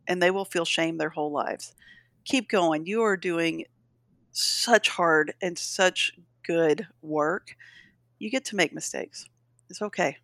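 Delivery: soft, slow encouragement to tired parents; a mom reassuring other parents that mistakes are okay. Acted. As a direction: comfort them like a friend.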